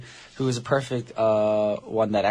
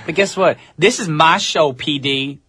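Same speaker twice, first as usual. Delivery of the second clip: a mock tough street act; urban persona thing; 3 semitones higher than usual. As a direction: swagger it out, mock threatening. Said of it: "I'm doing my urban thing".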